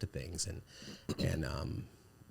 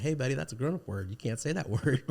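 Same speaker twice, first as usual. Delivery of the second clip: gentle correction; 6 semitones higher than usual. Retold or imitated. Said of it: "tell him, like".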